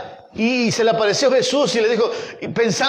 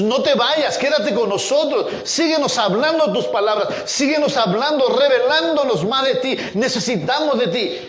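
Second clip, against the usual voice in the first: higher-pitched, insistent pleading; urgent plea; 5 semitones higher than usual. Acted. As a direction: beg Him to stay, phrase upon phrase. Preacher acts out plea to Jesus.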